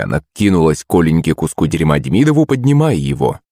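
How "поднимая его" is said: usual speaking voice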